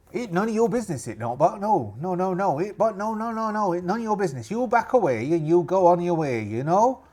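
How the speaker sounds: put-on pirate voice staking a claim; territorial rival pirate. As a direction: warn off the newcomers in pirate dialect. Rival pirate refuses to answer.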